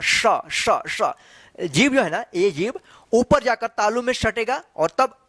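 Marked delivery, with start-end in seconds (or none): 0.0-1.1 श held long as a hissing sh sound, tongue on the palate; शिक्षक की तरह श की लंबी ध्वनि; demo of श. Shown as a demonstration. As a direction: stretch out श as a clear sh. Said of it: "देखिए कैसे उच्चारण होना है".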